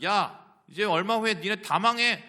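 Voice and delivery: loud, high warning yell at the city; preacher shouting Jonah's one-line warning to Nineveh; doom shout. Retold or imitated. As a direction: bellow the curt doom like a street prophet.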